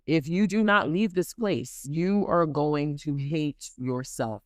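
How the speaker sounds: slow, weighted repeat of his words; slowed retelling of the customer's prophecy; slow, deliberate warning. Retold or imitated. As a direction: spell out the warning slowly, word by word. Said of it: "He said".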